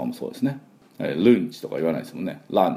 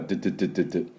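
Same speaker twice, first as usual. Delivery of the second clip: drill-like du sounds; 5 dB quieter, much faster than usual. Shown as a demonstration. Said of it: "デスクは".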